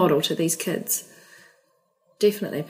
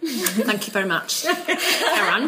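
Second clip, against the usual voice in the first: laughing; slower than usual. Real, not acted. Laughing at the ending.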